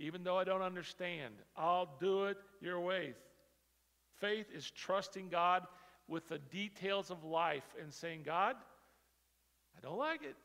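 loud, fervent prayer cry; preaching at full force. Real, not acted. Preacher voicing a believer's fervent prayer to God. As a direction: pray it out with conviction.

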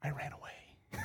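hushed whisper, very soft; barely audible confiding whisper. Retold or imitated. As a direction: keep it whispered, like dad's warning. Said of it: "When my dad's voice went down".

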